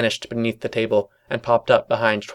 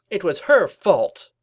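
high, emphatic cartoon accusation; indignant pony; 8 semitones higher, 5 dB louder, slower than usual. Pony blaming another, high indignant protest. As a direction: push the key words up high.

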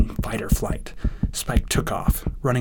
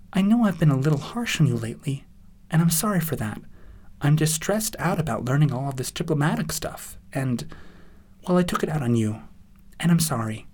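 apologetic Twilight; 4 semitones higher than usual. Acted.

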